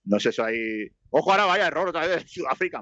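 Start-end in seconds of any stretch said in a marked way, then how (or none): 1.1-2.8 higher-pitched alert in match commentary; live play-by-play. Acted. Commentator spots another South African error, higher-pitched play-by-play. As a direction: call out the error, pitch lifted.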